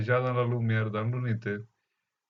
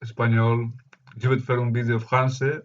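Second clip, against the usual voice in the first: Spanish-accented French, rolled r; foreign accent in french. Real, not acted. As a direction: Catalan speaker's French accent. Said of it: "mon français, c'est pas très bon".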